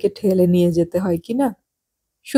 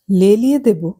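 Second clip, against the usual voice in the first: offended echo. Retold or imitated. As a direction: repeat "লেলিয়ে দেব?" as if the word stings a little. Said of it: "কথাটা আমার পছন্দ হলো না".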